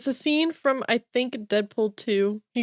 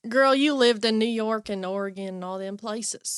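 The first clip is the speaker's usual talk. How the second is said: put-on Southern accent. Mocks co-host's Southern accent.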